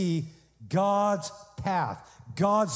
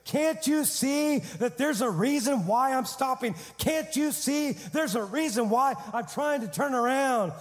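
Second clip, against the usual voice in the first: lightly voiced donkey, higher pitched and protesting; a hint of a put-upon talking donkey; indignant donkey; 4 semitones higher than usual. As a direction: plead an aggrieved case in a raised pitch. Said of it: "The donkey started saying".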